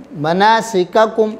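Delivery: مناسککم recited very slowly, both کاف sounded; slow recitation. Shown as a demonstration. Teacher showing two kaf letters, very slow recitation. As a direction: draw out مناسککم so each کاف is heard. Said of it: "یہ پہلا بھی کاف ہے".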